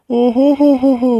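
high, slow sneering ho-ho-ho; mocking laugh. A jilted lover mocks Raji's happy new family, sneering laugh. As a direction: laugh at her scornfully, stretched out.

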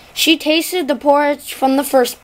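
usual speaking voice

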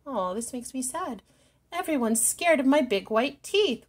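a gentle storybook lament; understated sad sigh from a lonely shark; wailing. Acted. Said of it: "wailed Smiley Shark".

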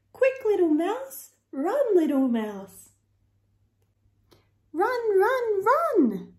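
urgent calling out. A narrator's reading. Urging mouse to flee.

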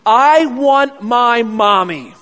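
loud, slow wail for mommy; retold child scream. Terrified child in recovery screaming for mommy, loud and slow. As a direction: cry out like a scared kid. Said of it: "I started screaming".

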